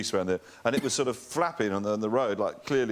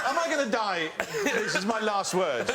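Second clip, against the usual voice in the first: mock dread; 6 semitones higher than usual. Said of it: "and I'm thinking".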